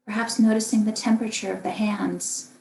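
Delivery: calm, unhurried meditation guidance with long pauses; guided meditation. Acted. Meditation teacher guiding listeners through a body scan, calm and spacious. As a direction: lead gently through the body, leaving room to breathe.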